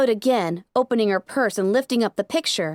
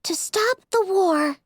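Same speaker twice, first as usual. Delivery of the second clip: resolute; 7 semitones higher, slower than usual. A narrator's reading. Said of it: "a tone of resolve in her voice".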